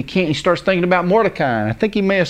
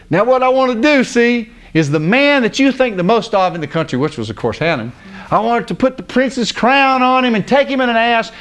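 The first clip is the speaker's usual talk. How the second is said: raised, emphatic king's pronouncement; grand proclamation; 6 semitones higher than usual. Retold or imitated. King to Haman on honoring a man, grand proclamation.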